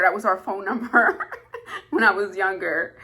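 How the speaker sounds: laughing through the words at the memory. Real, not acted. Recalling the phone-number song, laughing fondly. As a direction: let a real laugh break in.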